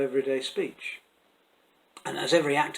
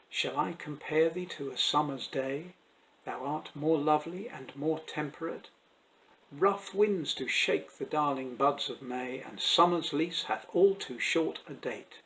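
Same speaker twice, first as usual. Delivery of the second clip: iambic verse recitation. Shown as a demonstration. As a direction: recite the sonnet in measured, rising-and-falling beats. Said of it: "you can hear the rhythm".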